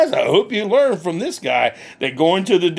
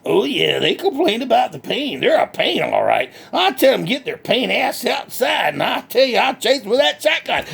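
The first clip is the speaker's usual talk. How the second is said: lightly voiced country hick, cheerful and boastful; redneck Bubba; 4 semitones higher than usual. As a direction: play a proud backwoods redneck bragging. Bubba on kids, shotgun.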